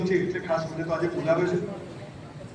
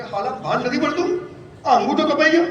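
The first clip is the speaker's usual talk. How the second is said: angry scolding; 5 semitones higher than usual. Retold or imitated. Old minister scolding the young prince, an angry higher rebuke. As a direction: scold the careless boy, voice climbing.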